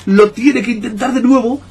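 high, excited play-by-play; commentator voice. Acted. Gamer commentating his own player like a TV caster.

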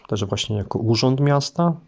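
ordinary talk

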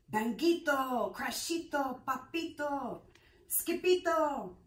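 bang out each crash like a sound effect; noisy ruckus calls. A narrator's reading. Closet noises burst out as the girls run in, loud.

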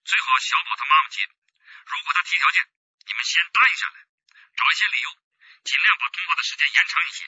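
hushed instructions. Acted. Detective instructs quietly by phone.

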